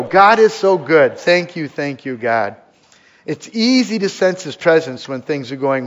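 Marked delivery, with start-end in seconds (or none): 0.0-2.6 grateful exclamation. Retold or imitated.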